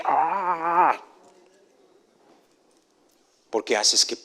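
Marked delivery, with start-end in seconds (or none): 0.0-1.0 exasperated huff. Retold or imitated. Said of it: "no estés ahí de".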